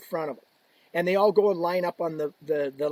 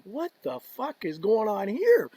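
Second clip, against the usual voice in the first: bewildered; 4 semitones higher, slower than usual. Retold or imitated. Retold bewilderment at crowd.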